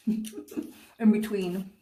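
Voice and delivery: laughing through the words; giggly, slow and drawn out. Real, not acted. Laughing with candy in mouth.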